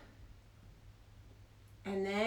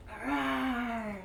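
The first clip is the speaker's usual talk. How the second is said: quiet little tiger rawr; a small, gentle tiger growl; soft tiger roar. Shown as a demonstration. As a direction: play a tiny tiger roar. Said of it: "Can you roar a little louder?".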